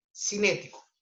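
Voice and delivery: "cinético" with the accent on "né"; stress on the E. Shown as a demonstration. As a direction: stress the second syllable of "cinético". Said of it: "Con acento en la E".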